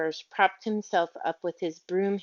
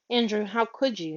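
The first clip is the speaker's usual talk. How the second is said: moaning; 3 semitones higher than usual. Acted. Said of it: "moaned Miss Lark".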